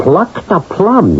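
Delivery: incredulous teasing echo of the editor's words; mocking echo. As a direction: echo her phrase back with disbelief. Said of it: "You never talked like that".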